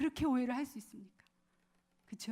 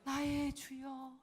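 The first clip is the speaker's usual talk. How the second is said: softer and very slow, bowing in humility; 나의 주여 said softly and slowly like a humble plea; humble, reverent; 5 dB quieter, much slower than usual. Shown as a demonstration. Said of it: "한나의 음성으로 한번 해보세요". (겸손하고 공손하게, 부드럽고 아주 천천히)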